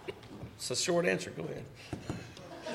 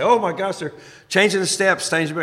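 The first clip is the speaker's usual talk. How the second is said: mock alarmed, a bit higher; panicked quote; 5 semitones higher, 4 dB louder than usual. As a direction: imitate the guys' panic lightly. Guys panicking about changed steps.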